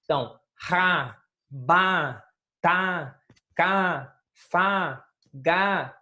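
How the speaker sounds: each syllable ra, ba, ta, ka, fa, ga said as a short separate sound; syllables said one by one. Shown as a demonstration. Teacher showing the class single syllables, each said separately. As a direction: tap out ra, ba, ta, ka, fa, ga one at a time. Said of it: "um som pronunciado de uma só vez".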